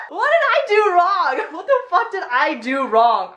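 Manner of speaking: high, loud, laughing through the words; incredulous giggling question; laughing in disbelief. Real, not acted. Laughing at ex's text.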